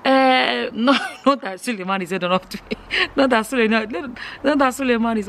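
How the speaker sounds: laughing through the words, quick. Real, not acted. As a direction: break into real giggles mid-sentence. Laughs at her own joke.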